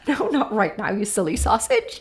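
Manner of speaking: playful laughing no; half-laughing refusal to a child; joking. Shown as a demonstration. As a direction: tease them with a laugh. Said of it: "I like to do it in a very joking way".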